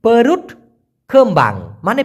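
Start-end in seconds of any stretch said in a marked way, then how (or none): 0.0-0.4 পারুট said slowly, every sound clear, rising at the end; careful teacher's pronunciation; Malay pronunciation. Shown as a demonstration. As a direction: spell out পারুট carefully for learners. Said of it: "উচ্চারণটা আমি বলে দিচ্ছি".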